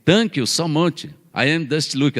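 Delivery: slow, halting English of a Brazilian tourist; badly accented tourist English; mock English. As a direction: fumble through shop English like a tourist. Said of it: "você fala assim".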